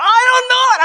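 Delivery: loud, very high mock wail; retold crying. Answering partner who asks what's wrong, imitated tearful wail. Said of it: "And I was just crying".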